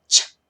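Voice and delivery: a lone "ch" sound, released sharply. Shown as a demonstration. Teacher showing the sound of C H, isolated consonant. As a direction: say just the consonant "ch", no vowel. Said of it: "así va a sonar".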